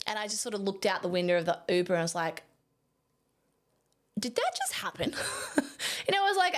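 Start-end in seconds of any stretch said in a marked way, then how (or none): 4.2-5.1 barely believing what just happened; stunned disbelief. Retold or imitated. Photographer alone in the Uber, awed disbelief. 5.2-6.6 laughing through the words, higher; giggling at the memory. Real, not acted. Photographer recalling the shoot, laughing. Laughing while retelling disbelief.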